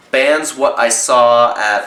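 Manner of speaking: slow mock British accent on "Bands what I saw at"; bad UK accent. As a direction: put on a clumsy English accent, slowly. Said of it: "Terrible accent".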